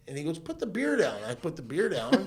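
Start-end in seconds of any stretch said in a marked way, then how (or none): 0.4-1.2 higher and louder command; retold cop order. Retelling a cop ordering him to drop the beer, loud.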